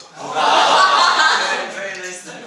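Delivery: laughing through the words; chuckling warmly mid-compliment. Real, not acted. Laughs at father's name.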